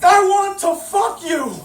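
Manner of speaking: high, loud eager blurt; excited blurt. Acted. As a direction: blurt it out with laughing glee. James blurts to goddess.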